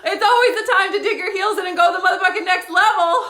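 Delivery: laughing so hard the rally cry cracks; loud laughing hype. Real, not acted. Laughing at her own hype.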